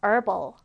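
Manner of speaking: "herbal" said as "erbal", no H; "herbal" starting straight on the vowel; silent-H herbal. Shown as a demonstration. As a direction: drop the H in "herbal", American style. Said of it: "H 발음 하지 않아요".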